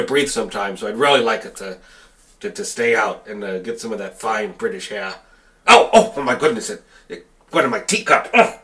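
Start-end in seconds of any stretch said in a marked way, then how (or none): 5.7-8.6 startled panic. Acted. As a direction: yelp in alarm. Teacup burn panic.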